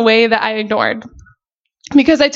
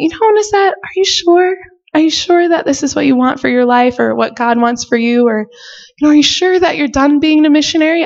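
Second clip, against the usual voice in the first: lightly voiced kind mentor, higher on her name; gently asking; 4 semitones higher than usual. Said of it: "she would just ask me so nicely".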